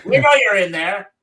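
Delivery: a light hint of an old-time cop; lightly voiced thirties policeman; 1930s policeman. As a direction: bark it like a movie cop through the door. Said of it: "my nineteen thirties policeman".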